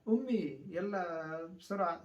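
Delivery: put-on slow whiny child calling أمي; a hungry child nagging his mother; child begging mother. A hungry child calls to his mother, whiny. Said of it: "واحد يقول، آه، لأمه،".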